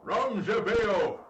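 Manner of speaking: put-on slow, drawn-out old man cry. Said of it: "that's the old man voice that I use".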